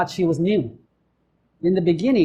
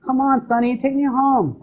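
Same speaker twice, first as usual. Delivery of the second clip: put-on whiny girlfriend; 6 semitones higher than usual.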